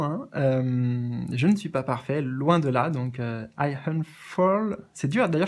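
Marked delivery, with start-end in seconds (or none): 3.6-4.8 slow, hesitant French-accented I unfurl; French-accented English. Shown as a demonstration. Retrying the unknown word for viewers, halting French-accented English. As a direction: feel your way slowly through the unfamiliar word unfurl with a French accent. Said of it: "je connais même pas ce mot".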